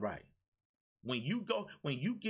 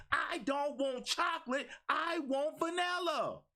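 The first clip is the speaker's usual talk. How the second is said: emphatic demand; 10 semitones higher, slower than usual. Pretend. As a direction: shout it out like you finally mean it. Voicing what you should say.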